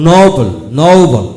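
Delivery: "নোবেল" slow, with the ঔ sound held; drawn-out "নোবেল" for learners; slow model pronunciation. Shown as a demonstration. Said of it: "ঔকার উচ্চারিত হয়". (ধীরে টেনে "নোবেল")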